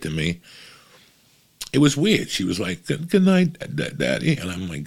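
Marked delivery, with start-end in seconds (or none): 2.9-4.4 put-on higher, small child's goodnight; a hint of a young daughter's voice; little daughter voice. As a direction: play the little girl saying goodnight. Daughter saying goodnight oddly.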